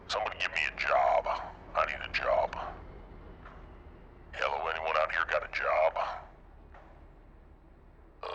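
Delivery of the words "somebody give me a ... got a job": trucker voice. Pretend. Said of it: "For the trucker voice".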